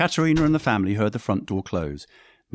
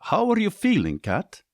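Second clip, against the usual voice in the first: genuine; 11 semitones higher than usual. Acted. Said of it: "The sound of his voice was genuine".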